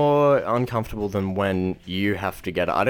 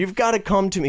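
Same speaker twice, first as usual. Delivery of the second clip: high, insistent mock New York guy; exaggerated pushy New York coworker; New Yorker impression; 10 semitones higher than usual. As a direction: urge like a hammed-up New Yorker. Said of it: "He goes".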